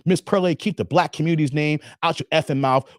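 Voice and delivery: a light hint of Will Smith's scolding; lightly voiced celebrity warning, barely off his own voice. Vlogger warning Pearl as Will Smith, lightly imitated. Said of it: "Will Smith's voice".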